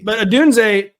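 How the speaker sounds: ordinary talk, nothing marked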